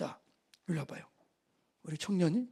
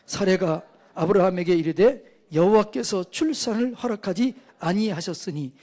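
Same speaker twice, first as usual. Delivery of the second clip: loud, measured verse reading; firm, deliberate Bible reading; scripture reading; 6 dB louder than usual. Real, not acted. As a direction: read the verse out for the congregation to follow. Reads scripture aloud to congregation.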